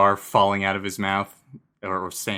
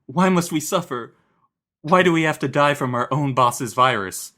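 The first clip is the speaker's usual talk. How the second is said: pleading; 5 semitones higher than usual. Retold or imitated. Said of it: "the subordinates are yelling".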